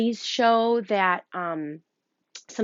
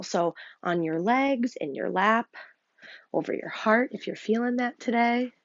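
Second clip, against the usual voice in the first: gentle meditation teacher voice; calm instructions for getting comfortable; guided meditation. Acted. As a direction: settle the class into their seats. Leads a breathing meditation.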